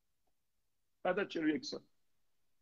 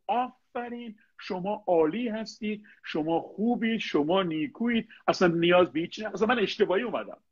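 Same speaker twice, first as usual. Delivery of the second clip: mock flattery; 3 semitones higher than usual.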